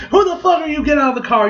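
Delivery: high-pitched mock threat; hammed-up menacing outburst; threatening. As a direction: act out an agitated demand at knifepoint. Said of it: "just start threatening".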